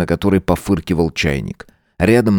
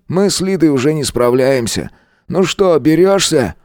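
lightly voiced teacher, a touch higher; teacher Roman; 8 semitones higher than usual. A narrator's reading. Teacher introducing the new caretaker, mildly scolding. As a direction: introduce the newcomer, then shoo the kid.

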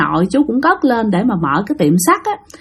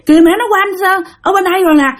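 put-on high little-kid voice; four-year-old child; 9 semitones higher, faster than usual. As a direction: direct mom excitedly in a high voice. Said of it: "đứa con của cổ lúc đó là bốn tuổi". (giọng bé bốn tuổi cao, chỉ cho mẹ)

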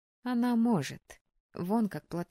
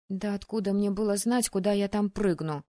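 snorting retort; 4 dB louder than usual. Acted. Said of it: "фыркнула я".

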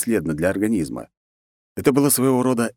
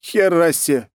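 higher, louder startled exclamation; surprised; 11 semitones higher, 5 dB louder than usual. Acted. Hero hears the queen has come, surprised exclamation. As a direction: blurt it out, caught off guard. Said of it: "удивился я".

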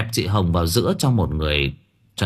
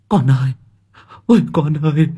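wailing; 6 semitones higher, 4 dB louder than usual. Acted. Parents wail over dying daughter.

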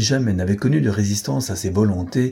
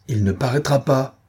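a mild raised cry, a touch higher; exclaiming; 5 semitones higher than usual. Acted. Lupin to Beautrelet, a mild exclaimed refusal. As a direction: cut him off with a firm exclamation. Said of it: "s'écria-t-il".

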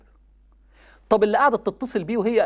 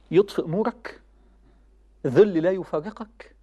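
slow and grave; 5 semitones lower, slower than usual. Real, not acted. Preacher slowly warning youth of lasting shame. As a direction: draw each word out slowly. Listing punishments for disobedience.

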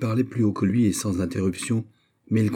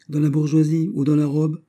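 higher, louder sneering question; disdainful question; 8 semitones higher, 5 dB louder than usual. Acted. Old lady sneers at Montalais's new post, disdainful. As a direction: look down your nose at her. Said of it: "demanda madame de Saint-Rémy avec dédain".

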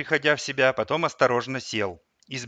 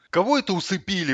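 higher-pitched indignant retort; 6 semitones higher than usual. A narrator's reading. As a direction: challenge the claim, affronted. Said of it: "возмутился Аркашин сосед". (возмущённо)

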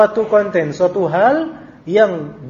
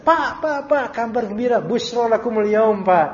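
put-on excited child; 4 semitones higher than usual. Child excitedly telling father good news.

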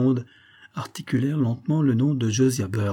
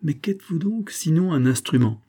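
scornful whisper; 6 semitones higher than usual. A narrator's reading. Major scorns Slowgood.

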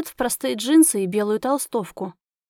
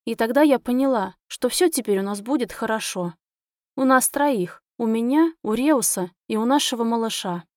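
usual speaking voice

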